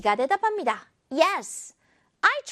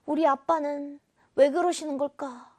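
puzzled. Acted. Acts out puzzled child wondering about dad.

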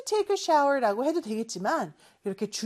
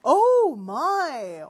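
louder shocked exclamation; oh-my surprise; surprised; 3 semitones higher, 5 dB louder than usual. Acted. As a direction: sound shocked at the mess. Reacts to dirty picture.

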